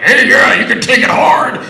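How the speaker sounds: loud, high, hammed-up seductive come-on; sultry porn star voice. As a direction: vamp it up like an over-the-top porn star. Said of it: "you know, like".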